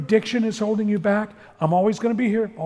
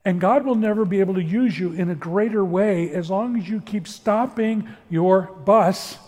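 very slow, every word weighed; slow, firm warning; slower than usual. Retold or imitated. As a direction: drag out each word like a final verdict. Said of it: "And he said".

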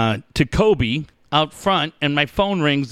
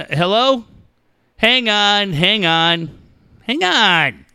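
prank voicemail voice; 5 semitones higher, much slower than usual. Retold or imitated. Acting out son's prank voicemail greeting.

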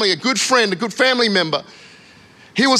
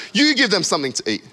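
quick, mildly exasperated retort; frustrated; faster than usual. Acted. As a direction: brush them off, faster, a touch of annoyance. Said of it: "God is, like, frustrated. It's like he doesn't want to answer".

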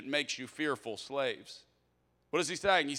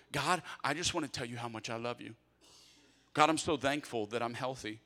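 sample grateful prayer; 3 semitones lower than usual. Shown as a demonstration. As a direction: talk to God like a loved one. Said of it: "start it with".

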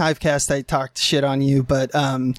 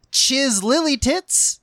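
drawn-out name; 8 semitones higher, much slower than usual. Acted. Slow high drawn-out name.

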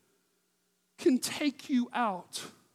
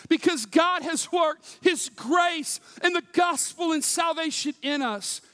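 preaching shout; 5 semitones higher, 4 dB louder than usual. Acted. Preacher builds to a declaration.

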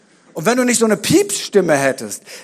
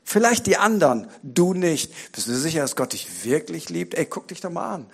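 soft, discouraging inner whisper-voice; soft voice of self-doubt; little inner voice; 5 dB quieter than usual. Acted. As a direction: murmur it like a nagging voice in your head. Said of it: "ist wie so eine kleine Stimme und sagt".

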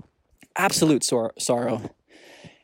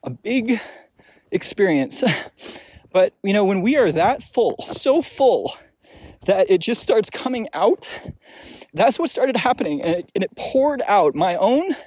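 getting emotional; 5 semitones higher than usual. Real, not acted. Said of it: "I might even get emotional here".

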